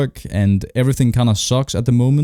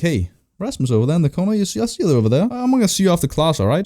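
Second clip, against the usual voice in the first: higher-pitched mock teacher; 6 semitones higher, faster than usual. Teacher singling out a pupil in the corner, mock high voice. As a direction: imitate a teacher calling out a pupil in a raised pitch. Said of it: "My teacher's like".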